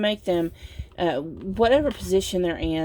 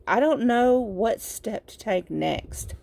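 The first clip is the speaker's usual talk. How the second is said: slow, higher, mock indecision; confused; 4 semitones higher, slower than usual. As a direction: act out a partner lost in confusion. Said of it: "they're in confusion".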